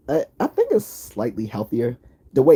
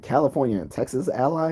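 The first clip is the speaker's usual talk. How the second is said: higher-pitched, puzzled disbelief; incredulous question; 6 semitones higher than usual. Retold or imitated. Viewer questioning a movie's premise, mock incredulous. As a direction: question it as if it makes no sense.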